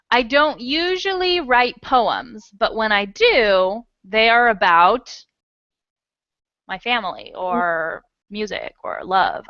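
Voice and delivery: slow, stressing "usually" and "do"; feed it to the student slowly; slow model sentence. Shown as a demonstration. Teacher giving Tanya an example, slow. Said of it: "you can say".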